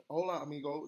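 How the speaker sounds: put-on Spanish with an American accent. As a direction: imitate an American greeting in Spanish. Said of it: "they talk like that".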